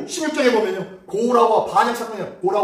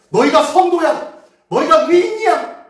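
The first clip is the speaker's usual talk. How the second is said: loud, higher, slow declaration; proclaiming; 9 semitones higher, 8 dB louder, slower than usual. Retold or imitated. Preacher voicing God calling the congregation saints, loud and proclaiming. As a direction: announce it as a solemn verdict.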